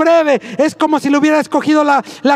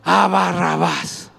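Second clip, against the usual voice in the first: low, slow and softer; stunned quiet repetition of the crowd's pick; hushed disbelief; 9 semitones lower, 5 dB quieter, slower than usual. Acted. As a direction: let it sink in quietly. Repeating crowd's choice in disbelief.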